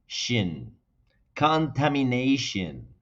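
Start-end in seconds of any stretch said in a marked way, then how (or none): 1.4-2.9 contamination said slowly the English way; English pronunciation demo. Shown as a demonstration. Teacher modeling contamination for Spanish learners, slow and clear. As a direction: model contamination for students to repeat. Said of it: "Espero que ustedes estén pronunciando".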